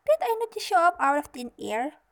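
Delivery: loud, high indignant question; huffy fairy godmother demanding credit; in a huff. A narrator's reading. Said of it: "said the fairy godmother in a huff".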